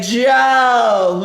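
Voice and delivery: shouted name, called out loud; mock uncle shout. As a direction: yell the name like teasing uncles. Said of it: "And they would say".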